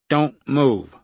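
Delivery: a contained yell of warning. A narrator's reading. Gunman surprising the intruders at the door, yelled. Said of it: "someone yelled".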